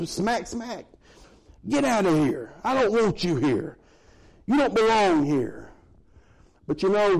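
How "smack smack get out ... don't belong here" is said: higher mock maid shooing a spider; disgusted maid. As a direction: play a fussy maid spotting a bug. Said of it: "Those maids come through there".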